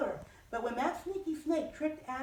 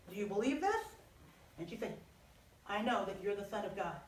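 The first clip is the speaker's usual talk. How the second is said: calm Jesus; 5 semitones lower than usual. Acted. Jesus voiced low in story.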